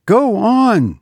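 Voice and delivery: high-pitched, pressing command; impatient. A narrator's reading. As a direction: prod the faltering maid onward. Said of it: "said Missus Townsend impatiently".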